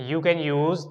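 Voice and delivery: slow, deliberate Indian English accent. Shown as a demonstration. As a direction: spell out each English word slowly in an Indian accent. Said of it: "जिस तरीके का मैं accent बोल रहा हूँ".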